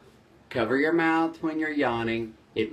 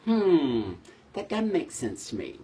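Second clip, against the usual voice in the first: skeptical. Shown as a demonstration.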